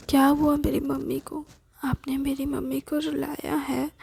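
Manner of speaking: put-on worried little boy, pitch rising on the question; child voice. Little boy asks who made his mother cry. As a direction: sound like a small boy upset over his mother.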